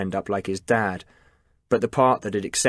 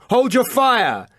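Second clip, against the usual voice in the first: slow, much higher, loud repeated yell; yelled order; 12 semitones higher, 4 dB louder, slower than usual. A narrator's reading. Liam repeating the order to Chris, slow loud yell. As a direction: drag it out as a desperate command. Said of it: "yelled Liam".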